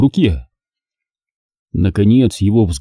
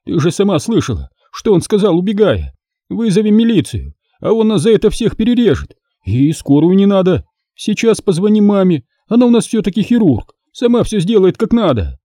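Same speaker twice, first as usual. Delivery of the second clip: higher, cowardly fussing; fretful clucking; 9 semitones higher than usual. Acted. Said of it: "закудахтал толстяк".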